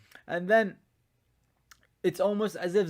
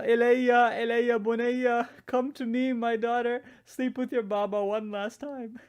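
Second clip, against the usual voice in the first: a father's voice calling his daughter from afar, a touch higher; mildly raised calling voice; 4 semitones higher than usual. Retold or imitated. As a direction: call her gently by name, like a father. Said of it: "I heard a voice call out".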